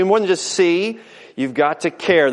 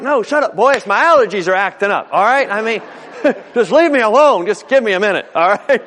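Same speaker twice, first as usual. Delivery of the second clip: hammed-up flustered dad, higher voice; defensive, hiding tears; 4 semitones higher, 4 dB louder, faster than usual. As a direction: brush the kids off in mock indignation, a bit louder. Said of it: "I'm beginning to cry".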